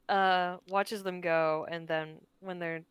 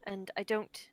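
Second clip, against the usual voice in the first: sincere apology. Acted. Tilda's heartfelt apology in character.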